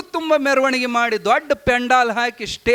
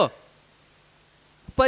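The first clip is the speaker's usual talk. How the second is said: choked plea; 13 dB quieter, much slower than usual. Acted. Disciple weeping before guru.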